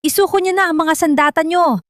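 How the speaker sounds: high, loud police command; shouted police warning through a megaphone. A narrator's reading. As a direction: bark the order to surrender over a bullhorn. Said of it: "malakas na boses mula sa megaphone".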